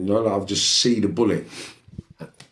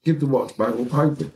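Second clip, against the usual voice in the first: acted exasperation; 8 semitones higher than usual. Acted quarrel.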